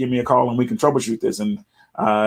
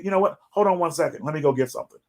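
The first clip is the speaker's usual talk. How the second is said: stalling demo; 6 semitones higher, 4 dB quieter, much faster than usual. Shown as a demonstration. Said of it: "Put them on a hold. Say".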